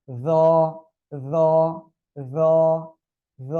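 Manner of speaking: য voiced with tongue tip against upper front teeth. Shown as a demonstration. Teacher models for the class to repeat, dental য. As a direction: set tongue to the teeth, then sound য. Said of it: "লাগিয়ে উচ্চারণ করতে হবে".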